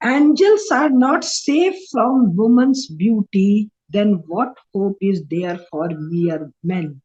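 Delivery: slow, measured reading aloud; drawn-out, weighty recitation; deliberate quote reading. Acted. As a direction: read it out slowly, word by word. Reads a quotation aloud, slowly.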